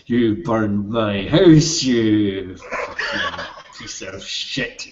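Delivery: slow, laughing gloat through the words; gloating Carl. Acted. Carl gloating over the carnage, laughing slowly. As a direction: savour the revenge, chuckling. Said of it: "Carl smiles down at the carnage".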